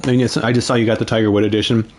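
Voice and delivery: gulping a smoothie between words; gulping a drink. Real, not acted. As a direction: talk around big gulps of smoothie. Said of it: "sorry if you guys hear me, like, gulping down this, uh, smoothie here".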